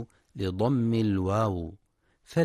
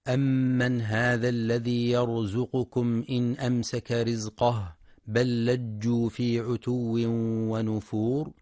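Quran recitation. Acted. Teacher recites a verse for listeners, measured chant.

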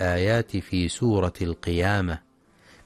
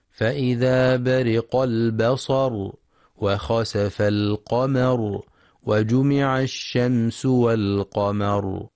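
slow recitation; slower than usual. Shown as a demonstration. Recited verses.

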